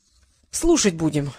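low, slow, resigned reply; sad. A narrator's reading. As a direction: give in sadly. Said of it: "грустно сказал Трикс".

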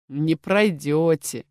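slow, smirking menace; captain coldly smirks at the maid's hopes; predatory smirk. Acted. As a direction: drop the kindness with a cold grin. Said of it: "хищно усмехнулся Оливер".

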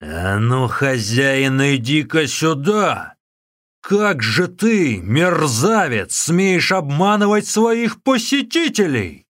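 furious monk roaring at the cheating innkeeper; booming yell. Acted. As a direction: bellow it out like an angry giant monk. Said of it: "Зычным голосом Усун заорал".

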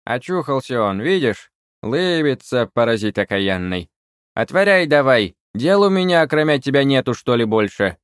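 put-on high, loud, scolding old witch; scolding crone. A narrator's reading. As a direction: berate him like an angry old hag. Witch scolding the wood spirit.

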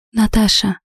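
usual speaking voice

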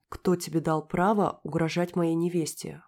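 медленно, по слову; отчекань каждое слово зло; чеканя каждое слово. A narrator's reading. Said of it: "выговаривая каждое слово". (медленно чеканя слова)

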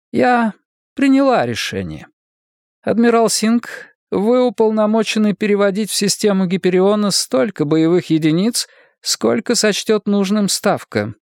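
high-pitched voice of a woman in command; decisive woman leader. Acted. Voices Gladstone giving orders. (властная руководительница, высокий голос)

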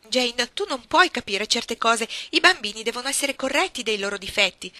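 lenta e forte, tono da predica; zia severa che corregge. A narrator's reading. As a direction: spiega con condiscendenza. Signora Reed voiced. (zia che rimprovera Jane, tono severo e lento)

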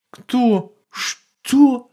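jolted, can't believe his ears; stunned. A narrator's reading. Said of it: "потрясённо сказал папа".

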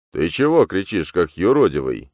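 a startled priest; puzzled priest. A narrator's reading. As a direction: ask in disbelief. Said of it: "недоуменно спросил батюшка".

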